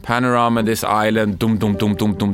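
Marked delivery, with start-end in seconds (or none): 1.4-2.3 even, spoken "dum" drum beats; imitated drum beat. Host setting up an island TV show opening, imitated drums.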